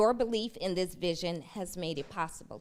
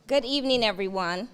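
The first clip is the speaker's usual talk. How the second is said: louder, steadier greeting; confident restart; 5 dB louder than usual. Real, not acted. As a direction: start over with new confidence. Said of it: "Sorry, I'm a little nervous".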